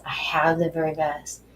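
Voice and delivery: whispered affirmation, intimate. Shown as a demonstration. Guide whispering an affirmation to the listener, whisper. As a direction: breathe it out as a whisper. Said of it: "hear my words".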